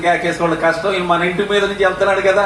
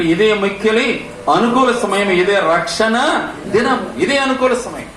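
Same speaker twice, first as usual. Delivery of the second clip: slow scripture reading; 3 semitones higher, slower than usual. Acted. Reads scripture slowly in sermon.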